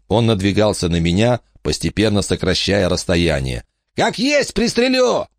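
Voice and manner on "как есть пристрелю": high, furious threat; angry threat. Acted. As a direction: threaten to shoot him. Bandit threatens.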